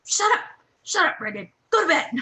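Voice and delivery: high loud camp shouts; playful shouting between tents; mock yelling. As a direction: holler across the tents. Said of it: "speak to each other from our various tents".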